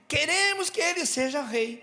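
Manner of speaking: high-pitched crowd clamour; crowd demand. Acted. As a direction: call out for the crowd. Crowd demanding a king, acted.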